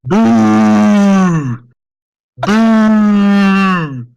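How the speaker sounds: loud jeering boo from the crowd. Acted. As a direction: boo like an angry arena crowd. DM voices booing crowd.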